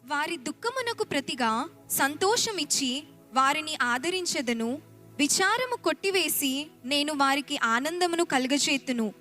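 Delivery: ordinary delivery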